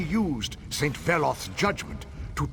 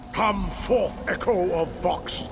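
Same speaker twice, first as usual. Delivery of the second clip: commanding shout; 4 semitones higher, 3 dB louder than usual. Acted. Summoning the boss in a ritual.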